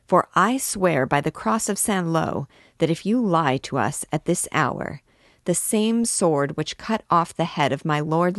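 put-on an old king swearing an oath at his barber; angry threat. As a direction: threaten him with the sword.

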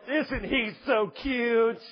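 drawn-out, slow cooing parent; doting parent. Acted. Parents excuse their child, doting and drawn out. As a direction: gush slowly over a misbehaving child. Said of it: "parents go".

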